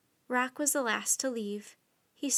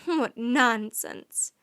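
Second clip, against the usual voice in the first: very slow, louder croak; croaking scorn; 6 dB louder, much slower than usual. Acted. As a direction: sneer it out like a raven. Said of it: "croaked the Raven King".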